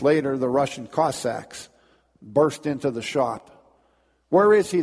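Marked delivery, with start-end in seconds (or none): 4.3-4.8 loud, high demand from soldiers; demanding shout. Acted. Cossacks storming the shop, demanding shout. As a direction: bark it at the shopkeeper. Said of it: "they demanded".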